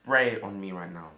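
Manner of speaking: loud, recoiling yell; disgusted shout. Acted. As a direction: shout it, jumping away in disgust. Son recoils from sneeze.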